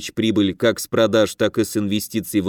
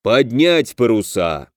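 usual speaking voice

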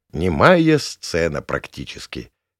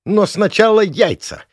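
much higher, loud shriek of a village hag; shrieking old woman; 13 semitones higher, 7 dB louder than usual. Acted. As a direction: screech it like a furious old woman. Gavrilovna's angry threat. (визгливый крик бабы)

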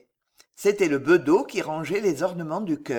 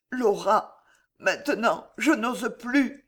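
trembling voice; 4 semitones higher, slower than usual. Acted. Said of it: "d'une voix tremblante".

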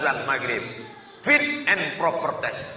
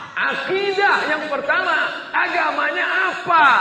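loud emphatic question; 13 semitones higher, 3 dB louder than usual. Acted. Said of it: "preacher stresses first question".

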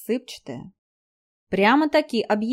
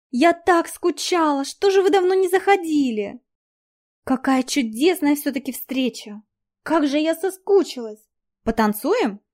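high gushing squeaky voice; 5 semitones higher than usual. Acted. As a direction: coo and gush at him, squeaky. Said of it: "неприятным писклявым голосом".

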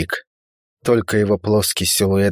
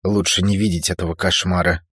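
ordinary delivery

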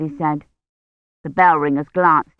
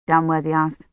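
ordinary delivery

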